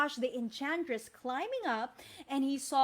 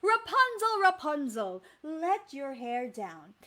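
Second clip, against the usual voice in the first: calling up; 5 dB louder than usual. Shown as a demonstration. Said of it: "Can you say it?".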